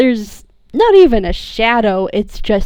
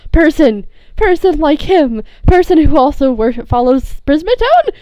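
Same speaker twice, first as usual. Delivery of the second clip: louder broken sobbing gush; cling and blurt happily; tearful happy blurting; emotional babble; 5 semitones higher, 4 dB louder than usual. Acted.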